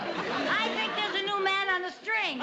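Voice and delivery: slow puppet voice. Acted. The puppet student answers, slow and drawn out. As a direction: let the words dangle like a puppet. Marionette gag, slow jerky voice.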